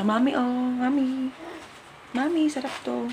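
rehearsed offering. Pretend. Practicing the snack offer to mami, lightly coaxing. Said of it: "alukuin ko siya".

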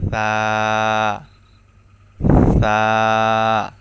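সা with tongue tip at the tips of the upper teeth, soft; soft tha demo. Shown as a demonstration. Teacher demonstrating the letter, soft. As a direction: lisp it softly, tongue on teeth. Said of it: "এটি হচ্ছে নরম হবে".

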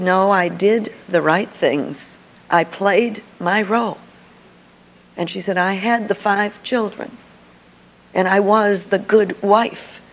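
slow, subdued retelling of a sad confession; understated sorrow as she quotes her mother-in-law; mild tearful quote. Retold or imitated. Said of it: "she is crying".

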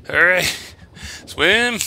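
high, loud happy cheer; excited cheer. Real, not acted. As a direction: cheer as if escaping. Reaching daylight in the well.

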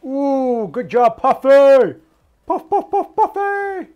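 very high, loud squeal of praise; playful cheer. Pretend. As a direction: gush over a pet, stretched and high-pitched. Cheering on Puffy in the game.

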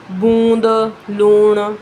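loud ਬੂੰਦ and ਲੂਣ, each "oo" stretched out; long vowel examples. Shown as a demonstration. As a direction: project and hold the oo in ਬੂੰਦ, ਲੂਣ. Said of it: "ਦੁਲੈਂਕੜ".

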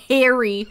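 "Harry" punched hard; emphatic, falling "Harry"; stress on HARRY. Shown as a demonstration. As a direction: lean on the first beat of "Harry". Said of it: "Emphasize the Harry".

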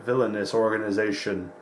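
hint of a cartoon announcer unveiling villains; mock ominous narration. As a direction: draw out the villainous title for mock drama.

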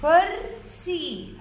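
كرسي joined up, still slow and high; blended word. Shown as a demonstration. Teacher putting كرسي together, slowly blended. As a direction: say كرسي as one careful word. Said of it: "إذا كرسي".

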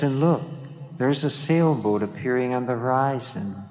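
mild excitement. Retold or imitated. Myra guiding them to spot a sailboat, mild excitement. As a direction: point out the sight with mild wonder. Guide spots a boat in exercise.

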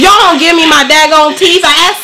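high, whiny dazed demand; groggy from anesthesia. Real, not acted. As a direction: plead while still drugged. Groggy patient demanding teeth.

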